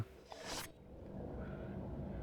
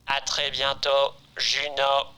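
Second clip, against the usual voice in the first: slow machine sign-off; robot voice; slower than usual. Acted. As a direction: drawl it out like a computer. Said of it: "Ouais, ça devrait faire robot".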